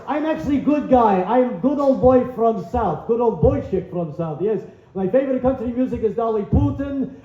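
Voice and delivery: put-on light Russian accent posing as a good old boy; Russian accent impression. Comic does the vice president as Vladimir, light Russian accent. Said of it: "my impression of the current vice president".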